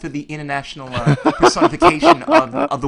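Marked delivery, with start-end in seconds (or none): 1.2-2.9 laughing as he speaks; giggling through it. Real, not acted. Laughing at his own joke.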